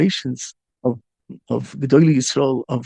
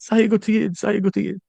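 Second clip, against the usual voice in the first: last-breath cry; 5 semitones higher than usual. Retold or imitated. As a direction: call it out high, with a dying breath. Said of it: "he's screaming the la-, with his last breath".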